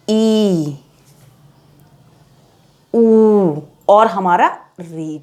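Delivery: ई, ऊ and री said short and clipped; teacher showing short vowels. Shown as a demonstration. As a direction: say the short vowels, spaced out slowly. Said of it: "उसमें देखिए हमारा आता है अ".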